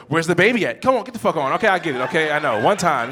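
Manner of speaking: loud, irritated outburst; hammed-up annoyed comeback; mock exasperation. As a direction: fire it off, fed up and loud. Acted nagging and irritated reply.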